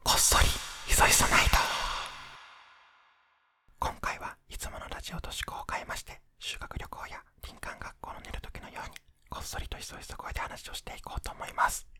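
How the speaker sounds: ひそひそ声. Real, not acted. (寝室でこっそり話すささやき声)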